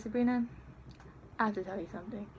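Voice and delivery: imitating an earnest confession; mock-serious confession to a crush; imitated confession. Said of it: "this is how he said it".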